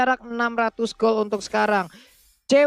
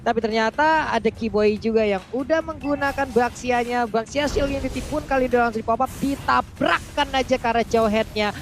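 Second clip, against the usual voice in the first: live play-by-play. Acted. Live MPL match play-by-play.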